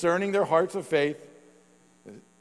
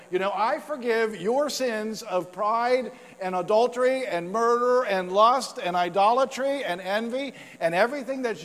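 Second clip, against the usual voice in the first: raised, building declaration of pardon; proclaiming forgiveness; 6 semitones higher, 4 dB louder than usual. Pretend. Preacher voicing Jesus to the crowd, rising proclamation. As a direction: proclaim it louder and louder, higher too. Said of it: "It's like saying".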